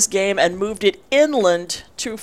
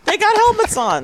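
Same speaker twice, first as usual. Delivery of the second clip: high squeaky voice; 13 semitones higher than usual. Pretend. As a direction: pitch it way up, goofy. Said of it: "repeated take".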